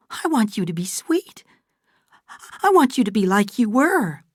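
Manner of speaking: mild plaintive plea; Fay pleading. A narrator's reading. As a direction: beg her to be sweet again.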